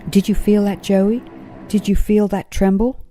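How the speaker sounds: a startled kangaroo exclaiming to his friend. A narrator's reading. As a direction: blurt it out, alarmed by the tremor. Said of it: "exclaimed Paws".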